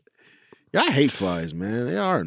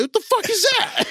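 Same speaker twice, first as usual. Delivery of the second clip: mom's voice pitched way up in shock. Retold or imitated. Mom bursting into the room, shocked high shriek. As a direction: shriek it like a startled mother. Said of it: "my mom came in there, was like".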